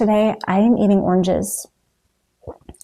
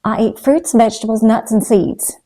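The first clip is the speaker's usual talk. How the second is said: put-on Southern accent; 4 dB louder than usual. Vlogger quoting her old raw-food mentor in a mild Southern accent. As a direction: playfully mimic a friend's Southern accent. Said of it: "in her delightful Southern accent".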